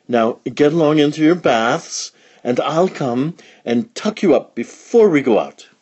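high, bright motherly voice; Mother Pig. Acted. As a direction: lift the pitch for the cheerful mother pig. Mother Pig sends piglets to bath.

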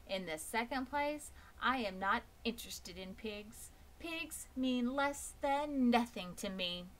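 a high, snooty lamb, slowing on the put-down; haughty lamb. Acted. The lamb snubs Wilbur, haughty and high. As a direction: look down on the pig.

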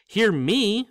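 unnaturally high. Acted. Ron to Harry, terrified, voice jumping high. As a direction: let the voice jump up in fright. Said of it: "in an unnaturally high voice".

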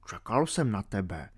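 hushed greeting in the dark; quiet whisper-like. A narrator's reading. Little archeologist waiting for Alenka at night, hushed. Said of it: "zašeptal malý archeolog".

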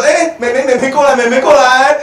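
high, sing-song luring voice; sweet-talking a little girl, hammed up; creepy uncle coaxing. (怪叔叔哄小妹妹的甜腻声音)

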